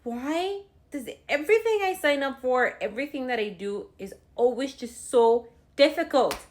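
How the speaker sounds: high, loud exasperated wail, mimicking herself crying; retold tearful complaint. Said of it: "I'm crying because I'm like".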